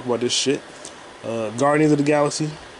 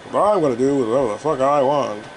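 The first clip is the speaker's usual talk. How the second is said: hint of a badly faked comedian impersonation; George Carlin. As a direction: do a rough, half-hearted comedian impression. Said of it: "That's my bad George Carlin accent".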